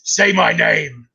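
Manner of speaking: slow menacing Walter White; lightly voiced slow menace; Walter White impression. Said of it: "he goes".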